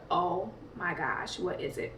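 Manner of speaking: slow, soft, half-whispered worry; hushed worried murmur. Retold or imitated. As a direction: mutter it scared under your breath. Panicked thought awaiting results.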